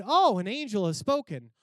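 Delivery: loud exclamation of wonder; acted amazement. Acting out the awed crowd.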